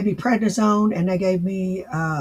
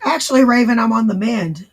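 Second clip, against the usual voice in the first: recovering hoarse voice; 4 semitones higher, 5 dB louder than usual. Real, not acted. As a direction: speak through a sore throat. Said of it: "I lost my voice".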